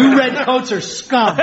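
put-on convincing American accent. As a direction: say it in natural American. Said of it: "can you do a convincing American accent".

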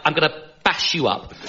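soft, feeble posh threat; posh accent. Shown as a demonstration. Posh comedian failing to sound aggressive, posh accent. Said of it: "Where my accent's like".

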